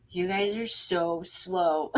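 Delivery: slow, drawn-out mock complaint; imitating impatient visitors. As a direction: stretch it out low and soft, quoting them. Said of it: "they come South Texas and they're like".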